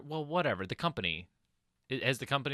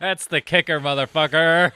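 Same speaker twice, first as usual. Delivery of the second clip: excited holler; 3 semitones higher, 11 dB louder than usual. Real, not acted. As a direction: holler it out at the punchline. Friend hollers at the punchline.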